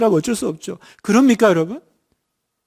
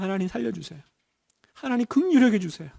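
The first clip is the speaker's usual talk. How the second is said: desperate plea; 7 dB quieter than usual. Shown as a demonstration. Modeled desperate prayer.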